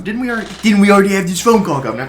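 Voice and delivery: high, loud, fast put-on voice; hurried high cartoon voice; the silly voice. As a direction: rattle it off as the goofy character. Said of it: "ability to do the voice".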